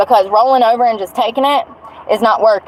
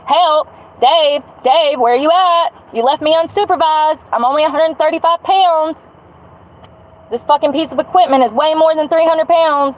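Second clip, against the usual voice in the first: calling out to Dave, higher, half-hearted yell; retold yell for help; 5 semitones higher than usual. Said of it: "I am screaming to the top of my lungs".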